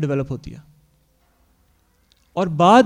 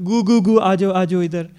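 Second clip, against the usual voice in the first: mock baby talk, a bit louder; 4 dB louder than usual. Parents calling their toddler over, mild mock baby talk. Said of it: "اس وقت ہم اس کو کیا بولتے ہیں".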